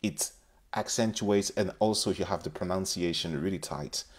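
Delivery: English with a light British accent; British-style accent. Shown as a demonstration. Teacher demoing her British-leaning accent to learners. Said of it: "avec un accent plutôt calqué sur les Britanniques".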